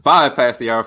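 upbeat morning radio host; punchy DJ time check. Retold or imitated. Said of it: "he sounds like a morning radio D J".

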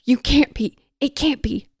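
lightly hammed-up gasping denial; gasping disbelief. A narrator's reading. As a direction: protest it in stunned shock. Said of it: "gasped Press".

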